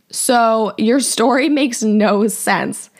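slow, laughing through the words. Retold or imitated. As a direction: laugh at how absurd it is. Mocking his caption.

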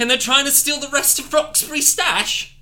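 high, loud incredulous voice; loud exclaiming. Acted. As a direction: shout the question. Character exclaims in story.

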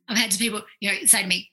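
usual speaking voice

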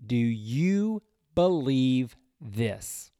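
measured reading of John to a congregation; scripture reading. Acted. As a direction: read the verses with reverence. Reads scripture aloud.

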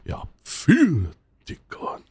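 drawn-out Bavarian sigh, dropping away; Bavarian father's greeting. Retold or imitated. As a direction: imitate a Bavarian dad, lightly. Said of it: "der Vater von meiner Freundin". (gedehntes Bairisch eines Vaters)

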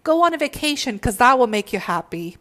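wheedling ego talking you out of healing; the ego's voice. Retold or imitated. The ego coaxing the listener to skip healing, high and wheedling. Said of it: "the ego constantly is in the background saying".

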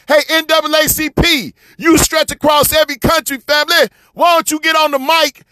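calling out. Real, not acted. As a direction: call them out across the room. Calling out to the NAACP.

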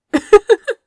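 a high, light giggle bubbling out; dizzy giggle. A narrator's reading. Lying dazed after the blast, a high giggle. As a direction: giggle aloud, punch-drunk and silly. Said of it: "made him giggle aloud".

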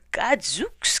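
alarmed bear's outburst; gasped. A narrator's reading. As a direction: exclaim it in breathless shock. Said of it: "gasped the bear".

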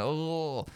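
put-on thick-accented "ooh". Comparing a friend's accent to the singer's, thick "ooh". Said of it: "He's a little bit thicker".

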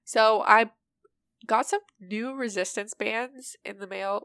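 stuffy nose from allergies; blocked nose. Real, not acted. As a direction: talk through a blocked nose. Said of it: "Wow, I sound really stuffy right now".

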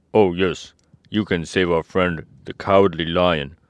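a hint of an eager scarecrow. A narrator's reading. Scarecrow suggesting a rescue, lightly put-on voice.

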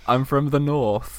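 drawn-out mock northern accent. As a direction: slowly put on a northern regional accent. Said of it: "like, regional accents".

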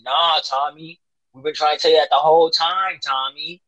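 hammed-up told-you-so; mock exasperation. Voicing exasperated reply to Tommy.

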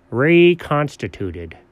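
"Reconstituted" slow and deliberate; slow, careful "Reconstituted" as a statement; sounding it out. Acted. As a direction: read "Reconstituted" out syllable by syllable. Sounds out the last word.

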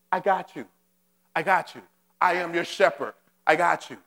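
low, gentle, repeated reassurance. Acted. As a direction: hold them close with each word. Repeated tender reassurance as God.

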